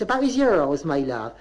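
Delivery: Bristol mother. Retold or imitated. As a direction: lift every line up like a question. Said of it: "She said".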